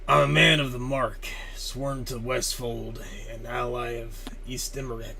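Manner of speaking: lightly voiced sworn warrior, measured declaration; Kuv. Reading a warrior's oath aloud, lightly put-on impression. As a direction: declaim it lightly, loud on the opening. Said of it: "like my best Kuth impression".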